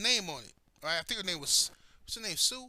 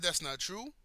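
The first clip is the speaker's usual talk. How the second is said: measured, softer retold denial; calm denial; 5 dB quieter than usual. Telling the president it's a lie, staying calm. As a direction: deny it quietly without taking the bait. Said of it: "I made sure I remained calm".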